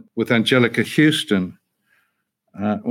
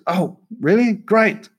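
mock delight; 11 semitones higher, slower than usual. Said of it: "I said".

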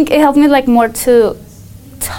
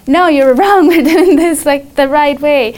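raised, insistent retort with a laugh; firm pushback; 4 semitones higher, 4 dB louder than usual. Retold or imitated. Teen retelling arguing with her dad, raised and insistent. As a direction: push back hard, half laughing. Confronting dad in political argument.

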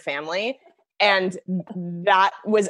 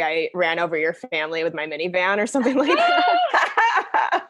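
cracking up at the joke; laughing. Real, not acted. Joking caption, laughing.

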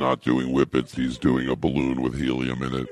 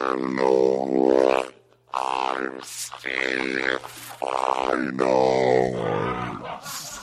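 slowed-down voice; much slower than usual. Pretend. Taking it to another level.

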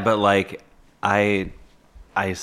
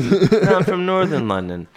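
bad English accent; 10 semitones higher, 4 dB louder than usual. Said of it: "so bad at the accent".

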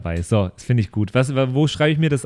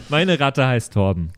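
laughing. Real, not acted. Player repeating his rat's name, laughing. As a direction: still giggling through it.

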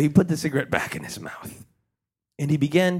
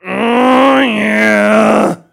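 high, loud eager shout; high, loud ghost cheering him on; ghostly voice shouting; 8 semitones higher, 13 dB louder than usual. Acted. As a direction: shout it out like an excited spirit. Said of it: "he heard a voice say".

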